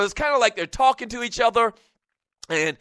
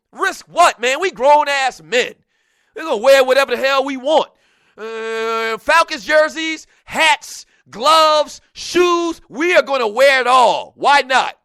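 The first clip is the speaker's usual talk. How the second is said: defiant mock shout; 5 semitones higher, 6 dB louder, slower than usual. Defiant retort, loud.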